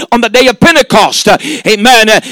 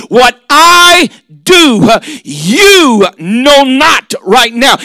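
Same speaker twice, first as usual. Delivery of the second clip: emphatic preaching shout; much slower than usual. Acted. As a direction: hammer out every word of Jesus. Preacher shouts Jesus' words.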